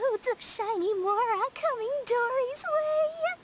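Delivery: gleeful greed. Acted. Dory dreaming of piles of Mora.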